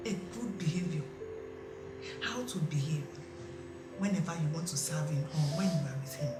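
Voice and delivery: soft, slow, reassuring explanation; gentle counsel. Acted. Auntie calmly comforting the worried wife, soft and slow. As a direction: soothe her like a wise elder.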